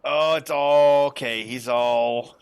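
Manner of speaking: ordinary talk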